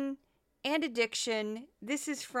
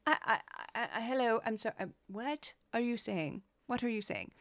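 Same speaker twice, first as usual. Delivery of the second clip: baffled disbelief; 4 dB quieter than usual. Retold or imitated. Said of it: "that was like a record scratch moment".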